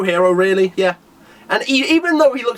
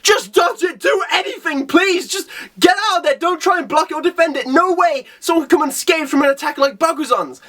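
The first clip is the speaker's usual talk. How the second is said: higher, urgent panicked pleading; pleading shout; 6 semitones higher than usual. Retold or imitated. Tsuryu pleading with Saitama to dodge, high and urgent. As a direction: beg him to get out of there.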